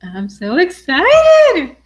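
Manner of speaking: high, drawn-out thrilled delivery; excited. Real, not acted. Host to live viewers before the big payoff, excited.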